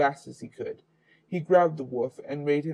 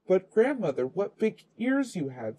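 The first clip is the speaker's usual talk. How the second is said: put-on higher, curious little girl; the girl to the disguised wolf, lightly higher and curious; wondering child; 5 semitones higher than usual. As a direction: marvel at it like a small child.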